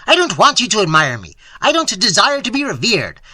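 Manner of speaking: loud, high, irate tirade; furious cantankerous outburst; shouted rant. A narrator's reading. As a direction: rant at him at full volume. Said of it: "he shouted".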